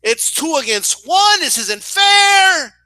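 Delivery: high, drawn-out outraged fan yell; mock protest building to a loud final word; imitated shouting. Cousin protesting two against one, shouting. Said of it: "she starts shouting".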